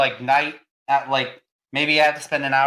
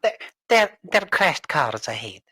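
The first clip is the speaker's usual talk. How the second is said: gps voice; 3 dB quieter than usual. Pretend. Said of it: "that's your G P S voice".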